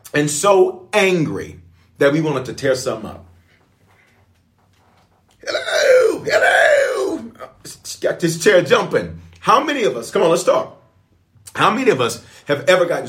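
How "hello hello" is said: high calling hello. Real, not acted. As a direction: sing out hello to wake the room. Preacher calling out to crowd.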